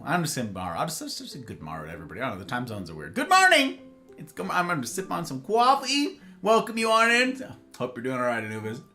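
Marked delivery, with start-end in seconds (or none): 3.1-3.8 high sing-song greeting. Pretend.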